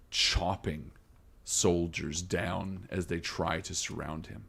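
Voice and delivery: measured, suspenseful narration with pauses; game master scene setting. Acted. Game master revealing a masked swordsman, ominous narration. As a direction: unveil the menace phrase by phrase.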